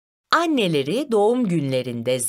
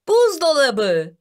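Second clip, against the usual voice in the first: drawn-out, higher call; shouted answer; 5 semitones higher, 4 dB louder, slower than usual. A narrator's reading. Two children shout the answer at once, slow high call. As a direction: call it out slowly, pitched up. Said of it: "aynı anda bağırdılar".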